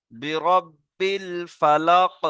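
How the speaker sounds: বিরব্বিল ফালাক spoken slowly, syllables clear; slow model. Shown as a demonstration. Teacher leading choral repetition. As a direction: say it slowly for the class to repeat. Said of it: "সবাই বলেন".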